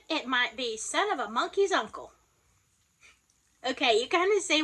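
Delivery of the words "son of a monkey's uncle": mock mad. Shown as a demonstration. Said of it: "if you're really mad".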